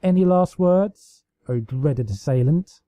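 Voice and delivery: loom over the cornered foe, smiling; a playful villain's demand; mock menace. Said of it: "an irritated smile itching onto her face".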